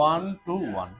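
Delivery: teacher drawing out one to one for students to copy; slow, spelled out. Shown as a demonstration. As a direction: say one to one very slowly, word by word. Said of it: "কি বললাম?".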